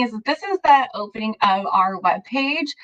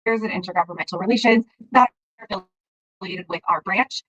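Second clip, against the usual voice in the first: muffled, like a hand over the mouth. Real, not acted. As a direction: speak muffled, covered mic. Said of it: "you're becoming muffled again".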